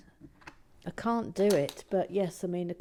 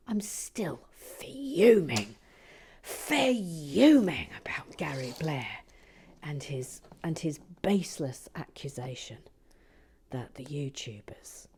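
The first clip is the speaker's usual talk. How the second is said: slow, hissed fake outrage; mock fuming whisper; 2 semitones lower, 3 dB louder than usual. Mock furious rant about Gary Blair, whispered fury. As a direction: whisper your indignation like a furious phone call. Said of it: "that's me fuming on the phone".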